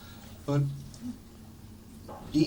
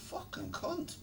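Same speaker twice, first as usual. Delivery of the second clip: laughing hushed curse; 10 dB quieter than usual. Real, not acted. Laughing retold aside.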